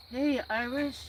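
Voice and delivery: a lightly voiced jokey hello; silly put-on voice. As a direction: greet him in a goofy voice. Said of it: "I don't know why I'm doing voices".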